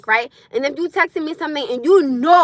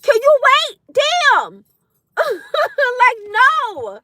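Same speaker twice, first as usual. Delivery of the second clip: higher and louder, fed up; exasperated outburst; 8 semitones higher, 4 dB louder, much slower than usual. Real, not acted. Ranting to viewers about nagging partners, exasperated shout. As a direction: blurt it out, done with the nagging.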